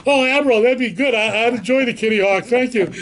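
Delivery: a touch of flustered eagerness toward the admiral; flustered eager reply. Retold or imitated. Flustered junior officer answers admiral.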